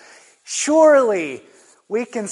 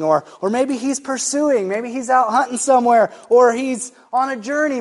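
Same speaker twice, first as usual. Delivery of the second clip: mock; 4 semitones higher than usual. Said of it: "Elijah mocked them and said".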